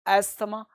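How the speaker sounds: अस्थमा spoken as "as-tha-ma"; TH sounded. Shown as a demonstration. Teacher contrasts the misreading for learners, अस्थमा with TH voiced. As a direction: keep the "tha" in the middle of अस्थमा. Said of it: "टी एच को था पढ़ते हैं".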